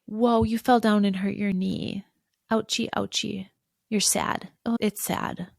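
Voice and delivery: gentle sympathy for a hurt knee; tender parent comforting a child; soothing comfort. Shown as a demonstration. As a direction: coo over the scraped knee. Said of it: "Another example of that is".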